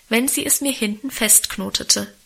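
usual speaking voice

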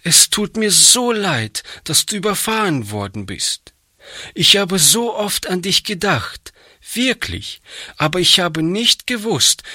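put-on a kind little girl telling the boy she is sorry; gentle girl Hannchen. A narrator's reading. Hannchen voiced by narrator.

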